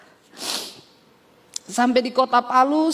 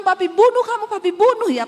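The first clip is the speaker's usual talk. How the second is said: raised, louder, hammed-up threat of a furious father; retold father's threat; 7 semitones higher, 5 dB louder than usual. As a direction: threaten like the angry dad being imitated. Father threatens to kill her. (ancaman ayah yang marah, ditirukan dengan suara tinggi dan keras)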